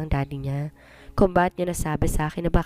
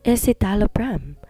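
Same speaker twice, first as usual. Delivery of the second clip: slow reading; 4 semitones higher than usual. Acted. Reading name again, slowly.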